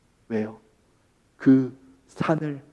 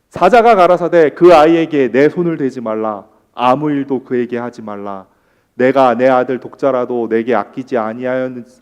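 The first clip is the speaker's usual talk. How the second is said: formal recitation, loud opening settling lower; scripture reading; 4 semitones lower, 5 dB louder than usual. A narrator's reading. Preacher reads the Abraham passage to the congregation, formal scripture reading. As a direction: read the verse out in a steady preacher's cadence.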